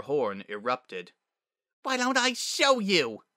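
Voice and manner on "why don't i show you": high, loud, drawn-out fury; enraged challenge. Acted. Provoked filly lunges at her bully, enraged. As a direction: erupt at the bully, much higher and slower. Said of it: "Sunset's blood turned to magma".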